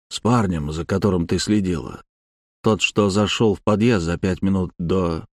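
patient. Acted. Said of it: "Виктор терпеливо произнёс".

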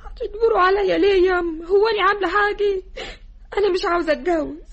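tearful pleading, voice wet with crying; crying refusal. Acted. Daughter crying to her mother, refusing the marriage. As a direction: beg through tears not to be married.

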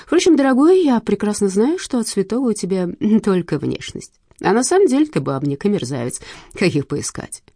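lightly voiced sly widow, mocking; a hint of a purring widow; scheming widow. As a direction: needle him sweetly with contempt. Widow character voice in audiobook.

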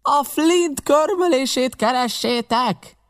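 high, drawn-out shout; impatient stretched bellow; shouted demand. A narrator's reading. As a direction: yell the demand up to the searchers. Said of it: "kiáltotta újra".

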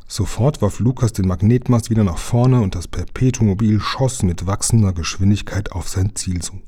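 plain reading voice

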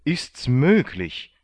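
high, loud exclamation of disbelief; high-pitched, shouted astonishment; astonished cry. A narrator's reading. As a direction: cry out in amazement, stretching the last words. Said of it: "schrie der Kommandant".

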